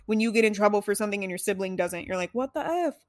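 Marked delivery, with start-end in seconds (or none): 2.3-2.9 high-pitched incredulous protest; mock indignation. Kid punished when sibling isn't, high mock indignation. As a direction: exclaim it like an affronted kid.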